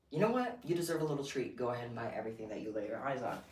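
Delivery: tempting yourself to splurge; indulgent inner voice. Retold or imitated. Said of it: "two modes when I go shopping".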